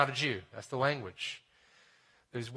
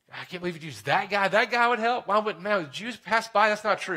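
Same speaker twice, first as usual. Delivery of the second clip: indignant voice, higher and louder; outraged listener; 6 semitones higher, 4 dB louder than usual. Retold or imitated. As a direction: play the offended crowd, protesting. Offended Jewish listeners voiced.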